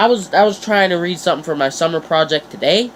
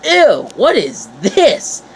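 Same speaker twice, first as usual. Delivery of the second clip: put-on disgusted kid; 4 semitones higher, 3 dB louder, slower than usual. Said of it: "And I'm like".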